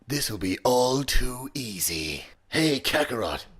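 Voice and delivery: strained, lightly gravelly anime rival; Vegeta. Shown as a demonstration. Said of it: "a mix between, I guess, Kung Fury and the Joker".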